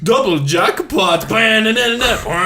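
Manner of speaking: high shouted monster calls; Frankenstein noises. Retold or imitated. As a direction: yell like a cartoon monster. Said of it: "their Frankenstein noises".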